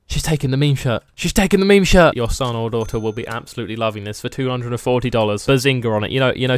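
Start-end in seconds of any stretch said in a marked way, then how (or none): 0.1-1.0 gasp, then say it in awe; contained astonished aside; gasping amazement. Pretend. Shopkeeper watching his meme shirt get taken, gasping amazement. Gasps as customer takes shirt. 1.1-2.2 higher, excited repeat; excited amazement. Pretend. Shopkeeper thrilled his meme shirt is selling, excited amazement.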